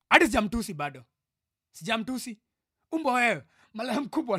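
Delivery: worked-up scolding; angry insults. Real, not acted. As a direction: hurl the insults at an absent friend. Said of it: "So, I am pissed".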